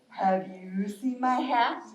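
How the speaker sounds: lightly voiced slow bear; inquiring bear. Bear asking snake about a lost hat, slow and searching. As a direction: draw out the question slowly. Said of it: "the bear asks the snake".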